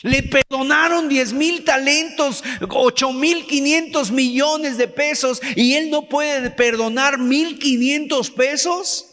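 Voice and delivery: mock disbelief. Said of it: "tú te quedas sorprendido y tú dices".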